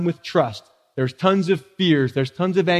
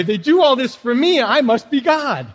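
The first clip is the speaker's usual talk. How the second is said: smug churchgoer; 6 semitones higher than usual. Retold or imitated. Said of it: "some of you have read the Bible and come to church that way".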